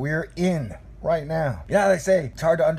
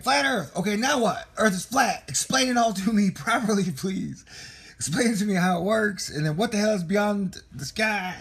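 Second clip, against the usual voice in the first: mock yelling; 6 semitones higher than usual. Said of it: "you're yelling at me".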